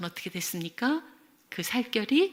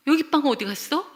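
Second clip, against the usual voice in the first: raised, higher mock-cross voice; acted angry demand; 6 semitones higher, 6 dB louder than usual. Child home from night class confronts mother, angry. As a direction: imitate an indignant kid demanding an answer. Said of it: "그러면서 막 화를 내는 거예요".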